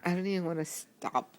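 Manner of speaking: talking through hiccups. Real, not acted. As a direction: hiccup breaks the line. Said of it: "Just keep hiccuping?".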